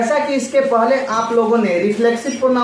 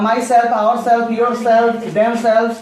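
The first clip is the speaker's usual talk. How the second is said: slow definition; much slower than usual. Shown as a demonstration. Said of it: "teacher reads definition slowly".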